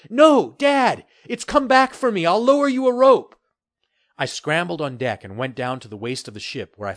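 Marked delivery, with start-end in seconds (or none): 0.1-3.3 high and loud call. Acted. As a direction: call down loudly. Son calling down to father.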